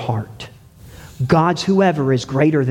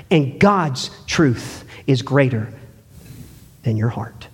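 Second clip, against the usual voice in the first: Jesus speaking; 7 semitones higher than usual. Acted. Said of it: "then he would say".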